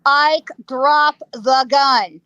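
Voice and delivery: slow, measured imitation of a lawman's order; booming command. Wyatt ordering Ike to disarm, slow and booming. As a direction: boom out each word slowly. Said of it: "booms it out at him".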